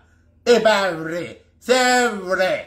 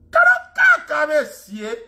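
high mocking cry; 8 semitones higher, slower than usual. Real, not acted. Repeated mocking call.

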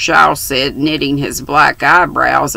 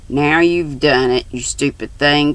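put-on cross, dismayed girl scolding; angry and dismayed. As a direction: snap at her, upset and annoyed. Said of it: "cried Fanny, both angry and dismayed".

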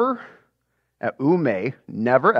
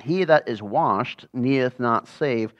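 scripture reading. Acted. Teacher reads scripture aloud to the Bible class, slow and solemn. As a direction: read the verses slowly and solemnly.

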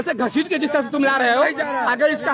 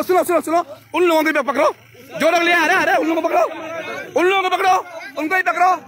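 urgent calling out; 3 semitones higher, faster than usual. Real, not acted. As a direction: call out urgently over the commotion. Reporter urging police to catch attackers. (Police को ज़ोर देकर पुकारते हुए)

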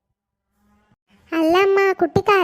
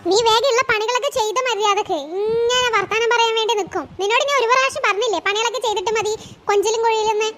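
higher, quick nagging scold; scolding mother-in-law; 4 semitones higher than usual. Acted. Mother-in-law scolding her son for chatting with his wife, in a sharp nagging voice. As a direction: nag him like a bossy mother-in-law.

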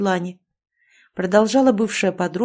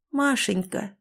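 soft, tender call of a name; a hint of a mother's soothing voice, softer; 2 semitones higher, 5 dB quieter, slower than usual. A narrator's reading. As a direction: call her gently, like a loving mother. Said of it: "Нежный женский голос".

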